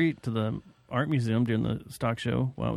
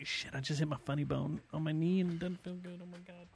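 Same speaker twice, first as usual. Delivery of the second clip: hit my funny bone; 3 semitones higher, 14 dB quieter than usual. Pretend. Mock injury, fading to nothing.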